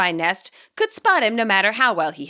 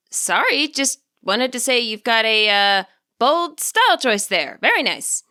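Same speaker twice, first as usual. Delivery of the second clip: put-on bright young stylist; 2 semitones higher than usual. Stylist compliments hair.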